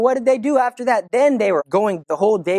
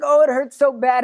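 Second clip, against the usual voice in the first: mild mock whimper; 5 semitones higher than usual. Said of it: "little Jacinta would cry".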